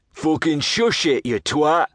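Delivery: slow, odd-voiced hiss-free hush-up; second hidden lout. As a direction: shut him up, slowly. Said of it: "This were another voice".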